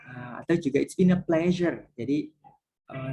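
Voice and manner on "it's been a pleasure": slow polite phrase. Shown as a demonstration. Teacher models English pre-closing phrase.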